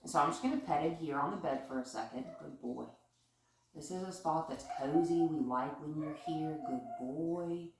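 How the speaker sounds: soft, hushed praise while petting; soothing. Real, not acted. Trainer softly praising her dog on the bed. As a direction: settle him down gently.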